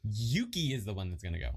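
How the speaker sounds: Yuki is the word that gets the weight; emphasis on "Yuki", the rest falling away; stress on Yuki. Shown as a demonstration. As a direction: lean into "Yuki". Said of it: "Yuki would be in all capital letters".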